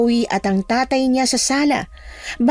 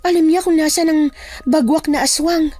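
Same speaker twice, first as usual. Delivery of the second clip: higher-pitched voice of the narrator's character Sol; batang kasama sa kuwento; 9 semitones higher than usual. Acted. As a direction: reason it out in a high character voice. (mataas na boses ng tauhang nagpapaliwanag)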